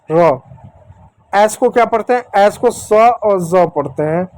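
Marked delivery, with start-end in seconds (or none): 3.4-3.7 "ज" pronounced za, with a buzzing z; z sound. Shown as a demonstration. Teacher giving sounds of S, "ज" as za. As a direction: buzz "ज" like English Z. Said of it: "एस को जेड के जैसा हमने पढ़ा".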